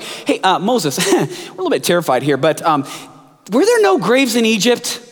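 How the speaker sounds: chuckling through a mock complaint to Moses; a lightly voiced mocking crowd, laughing; laughing sarcasm. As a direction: laugh it out, half-joking, half-scared.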